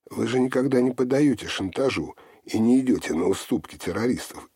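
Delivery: громкое, высокое недоумение; изумиться, подняв голос выше и громче; изумлённо. A narrator's reading. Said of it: "изумился он". (удивлённо, с напором)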